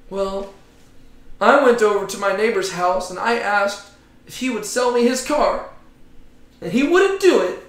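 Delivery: hammed-up pity party over a car; mock weeping. Preacher pretending to tell the class his woes, mock whiny. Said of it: "just weeping my eyes out".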